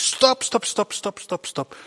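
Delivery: high urgent cries of stop, fading to a breath; an angel crying out to halt the knife; angel screaming stop. A narrator's reading. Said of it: "the angel screams".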